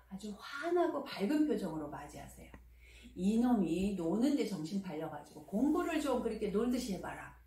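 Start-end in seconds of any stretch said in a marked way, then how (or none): 3.2-7.3 mild mock sneer at the child; sarcastic jab. Shown as a demonstration. Mother sarcastically needling her son for playing, a mild mock sneer. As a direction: lightly demo a snide scolding. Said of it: "비아냥거리듯이 말하지 마세요".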